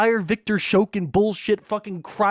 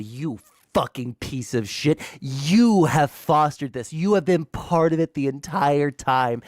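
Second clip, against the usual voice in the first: contemptuous rant; 5 semitones lower than usual. Real, not acted. Host berating the guest's audience with seething contempt.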